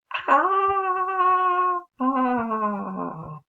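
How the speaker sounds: frightened cry. Acted. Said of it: "他太害怕了".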